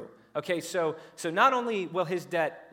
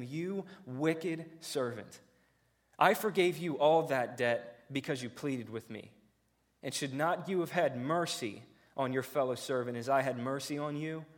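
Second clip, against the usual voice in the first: stern master. Acted. Master rebukes the wicked servant.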